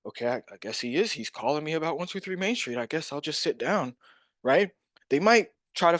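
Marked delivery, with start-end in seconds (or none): 0.1-4.0 softer, hesitant acted seller; mock-bewildered, quietly going along; dazed. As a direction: give in as if mildly stunned. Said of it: "they're dazed".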